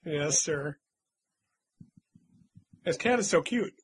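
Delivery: usual speaking voice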